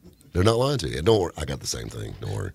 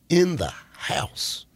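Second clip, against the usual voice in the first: whisper; 6 semitones higher, much slower than usual. Real, not acted. Announcing guests in studio.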